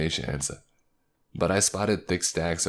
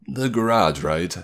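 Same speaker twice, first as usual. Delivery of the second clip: lightly voiced higher-pitched man, questioning; slightly higher voice; 5 semitones higher, 5 dB louder than usual. A narrator's reading. Second man checking where to go, slightly higher voice. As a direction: raise pitch and volume a little to check. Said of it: "a slightly higher voice asked quietly".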